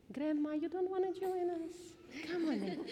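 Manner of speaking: high, bright, laughing call; playful invitation. Real, not acted. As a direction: coax grandma in with a laugh. Inviting grandma to join laughing.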